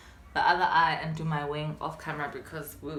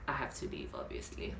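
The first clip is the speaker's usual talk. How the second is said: soft unvoiced whisper to herself; whispered inner thought; 15 dB quieter than usual. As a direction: breathe it like a secret thought.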